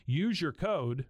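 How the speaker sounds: podcast sponsor read; host-read commercial. Acted. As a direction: read the ad copy in an easy, even sell. Reads a sponsor ad.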